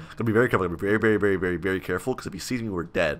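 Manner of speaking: low, soft sneaking voice; hushed caution. Real, not acted. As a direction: keep it down so nobody catches you. Sneaking, fears being seen.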